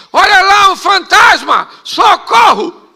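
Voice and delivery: high, loud cry for help; hammed-up terrified shriek at seeing a ghost; panicked scream. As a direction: scream in mock panic, voice shooting up. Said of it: "começaram a gritar".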